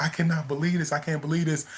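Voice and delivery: testifying grandmother. Retold or imitated. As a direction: retell it like a grandma testifying to a miracle. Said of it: "testifying to my mother".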